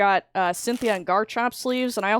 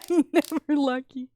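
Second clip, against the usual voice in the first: teasing echo through laughter; laughing mock; 5 semitones higher, 3 dB louder than usual. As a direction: laugh while mocking her words. Laughing echo of friend's complaint.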